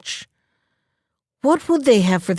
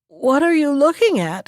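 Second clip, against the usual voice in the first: higher-pitched, mildly anxious question; trembling; 6 semitones higher than usual. A narrator's reading. Magpie spots the fox under his tree, trembling question. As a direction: ask with a touch of dread. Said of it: "he asked in a trembling voice".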